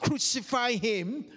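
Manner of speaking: mild retold shout, "Crucify him" left rising; mock shout. Preacher asking the congregation what we shout, mild mock shout. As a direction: voice the crowd's "Crucify him" as a restrained questioning cry. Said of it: "do we shout".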